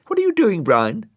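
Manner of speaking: put-on very high, loud girlish question; Florence. A narrator's reading. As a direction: call out to the snail in a bright little girl voice. Florence calls to Brian.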